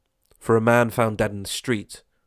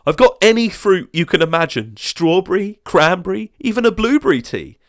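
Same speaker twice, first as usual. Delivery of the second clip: higher, loud sales-pitch neighbour; eager neighbour; 10 semitones higher, 8 dB louder than usual. Acted. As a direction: list the fruits like a keen hostess. Crowd offering teas.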